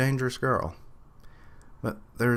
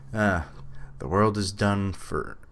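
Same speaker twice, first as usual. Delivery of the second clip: southern accent. Shown as a demonstration. Reacting to the game, he lightly slips into a Southern accent. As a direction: slip into a faint Southern accent. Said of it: "almost went, like, full southern accent there".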